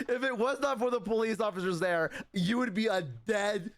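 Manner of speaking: hammed-up outraged mother; furious mom. Angry mother voiced.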